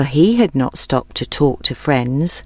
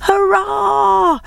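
high, excited cheer; 10 semitones higher, slower than usual. A narrator's reading. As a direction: cheer the winner on. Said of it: "the animals cheered".

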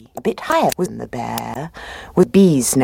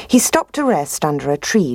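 usual speaking voice

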